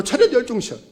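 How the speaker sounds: lighter barked commands; drill sergeant. Retold or imitated. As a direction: call the morning roll-call order. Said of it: "아침에 조회할 때도". (가볍게 외치는 구령)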